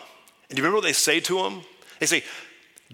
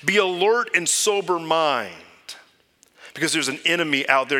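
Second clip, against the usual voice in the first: Peter's warning; 4 semitones higher than usual. Retold or imitated. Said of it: "and so Peter says".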